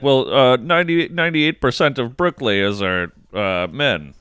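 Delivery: a hint of a squeaky professor quote; Jordan Peterson. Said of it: "He's like".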